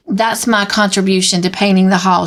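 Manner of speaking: gasping out words; breathless from running; out of breath. Acted. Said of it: "she gasped".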